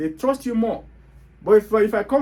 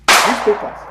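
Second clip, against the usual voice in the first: scoffing, louder challenge; incredulous; 7 dB louder, slower than usual. Real, not acted. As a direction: throw the question back in disbelief. Scoffing at the papers excuse.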